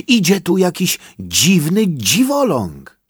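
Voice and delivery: high, hurried bird voice; a jittery bird blurting it out; lightly voiced nervous woodpecker. A narrator's reading. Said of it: "nerwowo dziobnął sosnową igłę".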